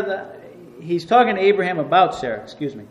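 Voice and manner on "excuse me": usual speaking voice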